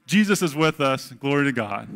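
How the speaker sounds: loud, happy call-back to the congregation; joyful shouted response. Shown as a demonstration. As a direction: proclaim it with full joy. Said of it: "I let you go way too long for you to come back".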